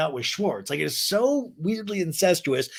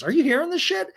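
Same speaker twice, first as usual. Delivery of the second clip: mock incredulous whine; 14 semitones higher, 4 dB louder than usual. Katie appeals to other table.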